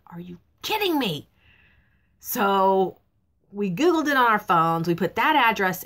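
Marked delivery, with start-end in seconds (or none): 0.1-1.3 hushed, breathy are-you-kidding-me; whispered disbelief. Retold or imitated. Couple lost at an office building, whispering in disbelief. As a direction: mutter it under your breath in disbelief. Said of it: "we're both just like".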